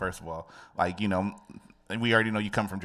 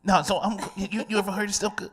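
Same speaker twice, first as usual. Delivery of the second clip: put-on nasal New York accent; 10 semitones higher, 4 dB louder than usual. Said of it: "a nasally New York accent".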